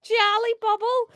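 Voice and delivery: hammed-up Scouse monologue; attempted Scouse. Paul's last words to his killer, attempted Scouse. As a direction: recount it in amateur Scouse. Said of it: "Um, Scouse".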